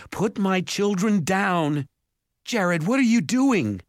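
high, loud frantic cry; panicked. A narrator's reading. Mother crying out for her children, panicked. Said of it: "mother's voice was panicked".

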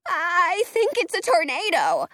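a touch of shaky fear; trembling voice. A narrator's reading. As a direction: say it with a frightened tremble. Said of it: "in a trembling voice".

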